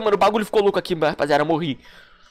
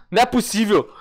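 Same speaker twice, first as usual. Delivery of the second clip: disbelieving cry. Real, not acted. Teammate killed him by jumping.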